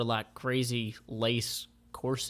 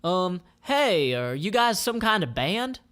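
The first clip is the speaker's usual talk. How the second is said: put-on higher, unsure girl's voice; curious Jackie; 7 semitones higher, 4 dB louder than usual. Jackie meets a band on the road, high and curious. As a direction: ask it like a curious kid. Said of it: "So Jackie says".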